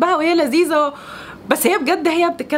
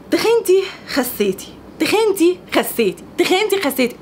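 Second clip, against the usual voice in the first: repetitive, higher-pitched imitation of commenters; mock parroting; 4 semitones higher than usual. Parrots viewers' repetitive weight comments.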